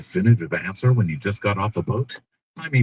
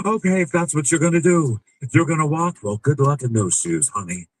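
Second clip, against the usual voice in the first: mock boyfriend; 4 semitones higher, 3 dB louder than usual. Boyfriend mocking her leaving.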